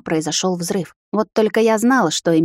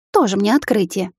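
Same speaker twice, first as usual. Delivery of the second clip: snort. Acted. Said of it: "фыркнула она".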